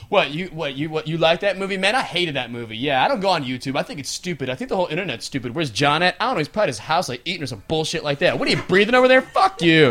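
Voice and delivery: mock grumpy griping; acted sour, dismissive grumbling; hater coworker. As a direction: rattle off scorn for everything. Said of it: "that one guy who hates everything".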